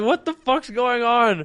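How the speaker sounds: slow, high startled question. Retold or imitated. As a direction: react stunned and drawn out. Startled by friend sprinting.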